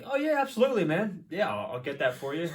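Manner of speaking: hammed-up overconfident yes to a customer; mock eager. New bartender fakes confidence.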